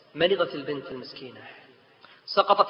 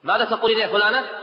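louder, higher furious demand; angry father; 6 semitones higher, 7 dB louder, faster than usual. Acted. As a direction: confront her angrily. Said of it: "مغضبا".

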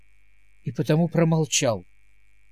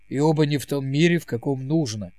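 indignant; faster than usual. Acted. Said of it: "возмущённо сказал Сэм".

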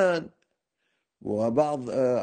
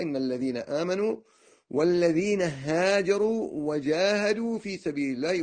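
higher, slowing verse recitation; slow, raised scriptural citation; Quran quotation; 5 semitones higher than usual. Retold or imitated. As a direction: recite the verse deliberately, drawing out the long vowels. Quotes a Quranic verse aloud.

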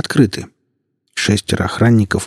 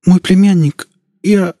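high, stammering, pleading voice; frightened policeman; 10 semitones higher, 4 dB louder than usual. Acted. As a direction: beg for mercy, stuttering with fear. Policeman pleads for his nephew.

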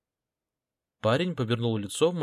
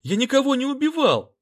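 higher, louder desperate yell; tearful protest; 14 semitones higher, 7 dB louder than usual. A narrator's reading. Accused schoolboy shouting he killed nobody, tearful. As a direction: cry out your innocence, near tears.

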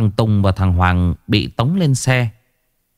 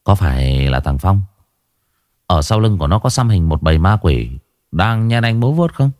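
gruff cop Vũ; 2 semitones lower than usual. Acted. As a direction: talk down to the snivelling kid. Vũ interrogates.

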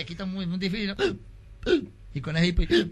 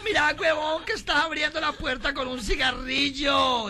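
higher, shouted scolding; angry wife scolding; 7 semitones higher, slower than usual. Acted. Wife yells at the drunk for opening the door with a cigarette. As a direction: snap at the fool.

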